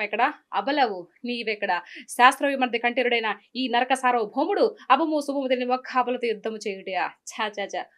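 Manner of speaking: lightly voiced grand villain's speech, theatrical; SV Ranga Rao dialogue. Performing a classic film line for the host, theatrical declamation. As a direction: declaim a mythological king's tirade. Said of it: "SV Rangarao గారు చెప్తారు".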